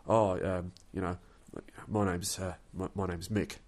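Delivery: lightly imitated English accent, hesitant; halting introduction in a mock English accent. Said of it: "it was actually an English accent".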